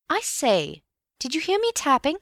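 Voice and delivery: high, excited question; eager excitement. Acted. Bill asks his friend about the tapping, eagerly excited. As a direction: burst out eagerly, pitch soaring.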